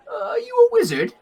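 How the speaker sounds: high, quick question; small elf woman. Acted. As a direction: ask in a high little character voice. Voicing small elf woman asking.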